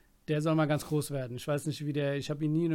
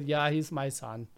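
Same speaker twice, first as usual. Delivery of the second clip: put-on East German accent; slower than usual. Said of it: "Du redest das so Ossi-mäßig".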